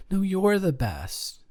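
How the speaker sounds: mock-gushing high compliment, full volume; corny compliment. Lover volleying a corny compliment back, mock-gushing. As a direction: toss it back like a sappy rival. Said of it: "Corny im-, corny compliments battle".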